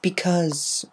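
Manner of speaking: drawn-out hesitant because; a reluctant, stalling because. A narrator's reading. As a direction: stall on the word. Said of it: "hesitating far too long".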